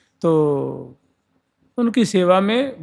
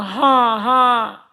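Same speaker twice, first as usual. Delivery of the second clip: हाँ, हाँ pitched higher as a sharp warning; hushing no; 4 semitones higher, much slower than usual. Shown as a demonstration. Teacher showing हाँ as a hushing warning, pitched higher. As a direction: say हाँ, हाँ up high to tell someone to stop talking. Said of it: "वो निषेध रूप में".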